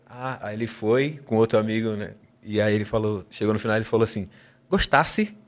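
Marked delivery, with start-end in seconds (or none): 4.7-5.3 put-on high, sing-song Recife accent of a Japanese friend. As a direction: mimic a Japanese guy speaking with a Recife accent. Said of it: "com sotaque de Recife".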